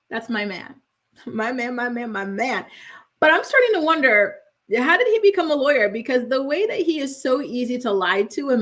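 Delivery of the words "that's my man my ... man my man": soft, dreamy sighing over her crush; a softer, lovestruck my man; swooning. Real, not acted. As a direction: melt a little saying my man.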